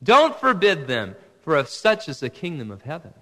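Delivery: stern. Retold or imitated. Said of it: "Very sternly, he says".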